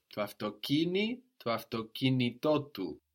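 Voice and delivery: αυτοκίνητό stressed on -κί- and again on the final -τό; two accents, one on -κί- and one on -τό; both accents. Shown as a demonstration. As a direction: make both stresses in αυτοκίνητό του clearly heard. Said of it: "we need to hear both".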